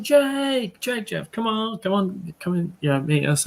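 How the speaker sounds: high call across the street; hailing friends from afar. Retold or imitated. Calling friends over across street.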